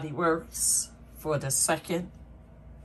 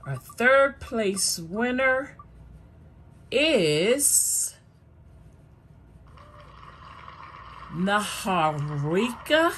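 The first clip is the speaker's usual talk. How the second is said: hyped giveaway announcement; 4 semitones higher, slower than usual. Real, not acted.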